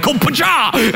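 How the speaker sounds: high, explosive imitated blow; mock smack noise. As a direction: imitate a mom's sudden retaliation. Mom's reaction to being sassed.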